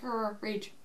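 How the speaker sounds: quiet, playful growl of rage; mock angry growl. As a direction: growl softly like a pretend raging beast. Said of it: "angry when they're swinging".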